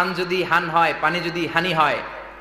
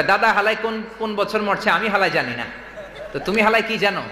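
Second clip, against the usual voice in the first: put-on Old Dhaka dialect, laughing. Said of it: "কয়".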